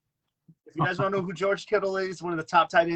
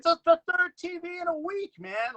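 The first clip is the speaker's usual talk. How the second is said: imitating Eddie; 14 semitones higher than usual. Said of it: "He's like".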